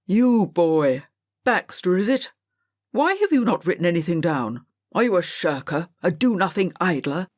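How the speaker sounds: a lightly voiced stern old teacher, barking at a pupil; stern schoolmaster. Schoolmaster Mr Greville scolds Robert for writing nothing, sternly. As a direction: scold the idle boy like a strict master.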